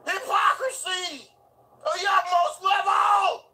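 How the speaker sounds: slow, hammed-up high shout; mock outrage. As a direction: proclaim it like a mock sermon. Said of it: "I'm just clowning".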